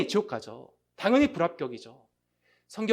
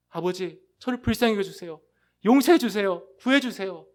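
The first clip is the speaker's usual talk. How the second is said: mock crying out; 2 semitones higher, 5 dB louder than usual. Preacher voices a repentant sinner crying out to the Father, mildly pleading. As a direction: beg the Father for mercy, understated. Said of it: "라고 울부짖는 것입니다".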